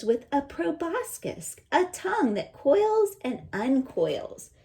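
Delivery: lively read-aloud voice; storybook reading voice; reading to children. Acted. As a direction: read the page to the class. Reads book aloud.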